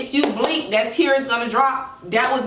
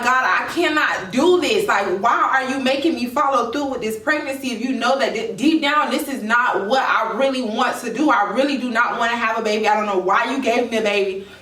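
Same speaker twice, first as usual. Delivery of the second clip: retold frustrated questioning of God; mildly exasperated, words running on. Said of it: "it got me real frustrated".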